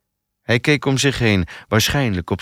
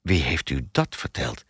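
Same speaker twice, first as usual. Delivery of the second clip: shocked; 6 semitones lower, 5 dB quieter than usual. A narrator's reading. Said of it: "keek haar geschokt aan".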